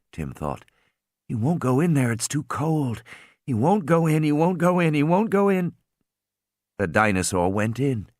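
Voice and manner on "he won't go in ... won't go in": willing it desperately; rising urgent hope. A narrator's reading. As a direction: pitch climbing with each repeat.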